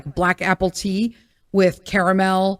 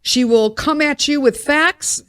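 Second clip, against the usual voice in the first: building rant; 3 semitones higher than usual. Real, not acted. Praising the YouTuber who answers with facts, building excitedly. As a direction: pile the facts on faster. Mock-ranting admiration.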